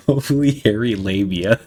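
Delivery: reading through the giggles; real laughing. Real, not acted. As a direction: try to finish the phrase while laughing. Reading crude text while cracking up.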